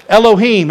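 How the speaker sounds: Elohim said as eh-loh-HEEM; Hebrew word Elohim. Shown as a demonstration. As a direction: sound out Elohim clearly, Hebrew style. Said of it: "Everybody say Elohim".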